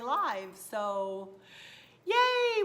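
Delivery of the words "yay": high, loud, drawn-out yay; excited cheer. Real, not acted. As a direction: cheer it out to the viewers. Cheering for upcoming videos.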